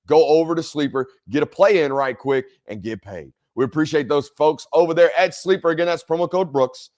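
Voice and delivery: upbeat, brighter ad-read voice; sponsor ad read. Acted. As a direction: sell it like a host's promo spot.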